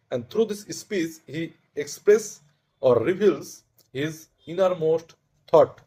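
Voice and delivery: very slow, deliberate dictation pace; formal definition reading. Shown as a demonstration. Teacher reading students the definition of soliloquy, slow and deliberate. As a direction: read it out word group by word group, with long pauses.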